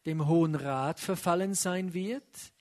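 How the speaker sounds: measured Bible reading voice; scripture reading. Acted. Preacher reading scripture to congregation, solemn. Reads scripture passage aloud.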